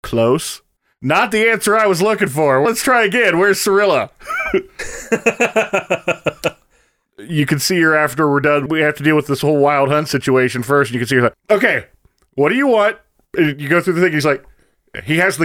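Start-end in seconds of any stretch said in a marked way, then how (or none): 0.0-4.1 higher-pitched, mock-testy questioning. The king questioning Geralt about his daughter, testy. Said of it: "it's a very testy exchange". 11.5-13.0 higher-pitched, impatient retort; testy. Retold or imitated. The king bargaining with Geralt, testy. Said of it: "it's a very testy exchange".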